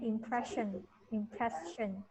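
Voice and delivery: "impression" said carefully with a clear p and sh; teacher repeats "impression" as a correction; pronunciation model. Shown as a demonstration. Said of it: "we pronounce it impress".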